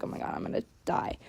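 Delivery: fast whispered mock panic. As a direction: hush it like a frightened inner thought. Retold panic thought in the ring.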